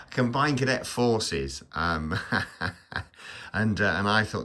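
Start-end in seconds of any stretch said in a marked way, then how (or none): 0.1-1.6 slow, higher, careful "Combined Cadet Forces"; deliberate correction. Real, not acted. Vlogger correcting his fumbled cadet unit's name, slow and deliberate.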